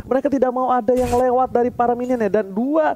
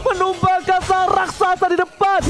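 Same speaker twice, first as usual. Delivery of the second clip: high fast excited play-by-play; fighting game announcer; 6 semitones higher than usual. Real, not acted. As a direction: call the fight with rising energy. Teamfight play-by-play.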